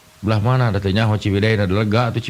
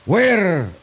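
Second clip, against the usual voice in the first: much higher, slow mock English; broken English; 9 semitones higher than usual. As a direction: ham up clumsy English. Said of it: "Bahasa Inggris tapi kepakojot". (bahasa Inggris ngawur, nada tinggi dibuat-buat)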